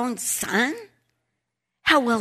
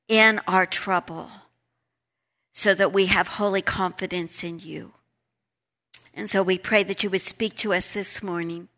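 prayer; 2 semitones lower than usual. Real, not acted. Leads an opening prayer.

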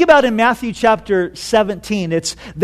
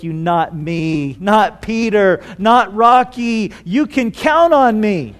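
emphatic pledge; slower than usual. Acted. Peter boastfully pledges loyalty.

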